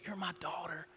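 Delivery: very soft, intimate assurance; imitated divine whisper. God claiming each person in church, very hushed voice. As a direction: hush it right down, a pause between phrases. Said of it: "Spirit of God whispering that to you".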